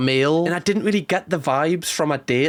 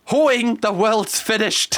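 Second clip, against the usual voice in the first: mock despair; 6 semitones higher, slower than usual. Mock despair over the word.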